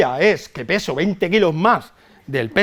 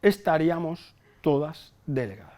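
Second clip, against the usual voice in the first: a hint of a wise grandmother, slow; drawn-out saying, slower; lightly voiced grandmother; 2 semitones higher, slower than usual. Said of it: "mi abuela ... decía". (abuela sabia, apenas insinuada y lenta)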